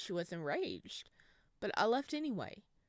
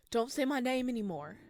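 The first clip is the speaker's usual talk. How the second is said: loud, higher pleading shout; desperate shout; 5 semitones higher, 7 dB louder than usual. Acted. Samuel to the demon voice, desperate shout. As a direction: cry out to make it stop.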